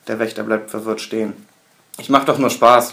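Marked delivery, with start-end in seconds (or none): 2.0-2.9 louder, amused laughing reply. Acted. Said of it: "lacht der Wortführer".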